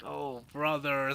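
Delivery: slow, drawn-out exasperation; mock dismay. Streamer retelling friends' reaction, mock dismay. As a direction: stretch it out like a mock groan. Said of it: "we were all like".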